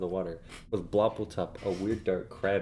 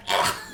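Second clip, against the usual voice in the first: high yelp; 5 dB louder than usual. Acted. Character cries out.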